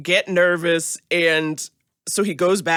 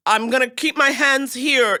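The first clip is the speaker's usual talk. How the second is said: slow, higher careful announcement; retold deference; 4 semitones higher, slower than usual. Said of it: "you were like".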